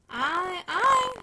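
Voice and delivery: approving. Acted. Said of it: "in an approving tone".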